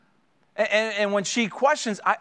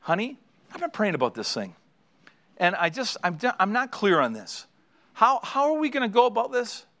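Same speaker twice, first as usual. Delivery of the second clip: gentle question; 3 semitones higher than usual. Shown as a demonstration. Wife to husband about a decision, gentle question. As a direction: ask without attack. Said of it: "And you should".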